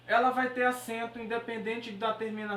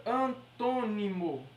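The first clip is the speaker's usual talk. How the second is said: syllables spelled out; much slower than usual. Shown as a demonstration. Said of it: "sílaba tônica".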